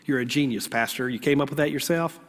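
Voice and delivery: softly voiced sarcastic "ooh, genius"; mock admiration. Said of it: "You're like".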